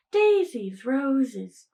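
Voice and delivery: lightly put-on scent-label voice; women's product marketing. Listing women's deodorant scents for comparison, lightly mock marketing voice. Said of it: "deodorant smells for women are like".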